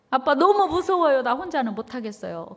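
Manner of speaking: put-on scared child pleading. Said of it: "그럼 막 우는 거예요".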